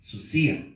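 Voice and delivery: "Susia" with the accent on the I; stress on the I. Shown as a demonstration. Teacher repeats a Greek word for note-takers, I stressed. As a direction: say "Susia" stressing the I before the final A. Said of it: "acento en la I".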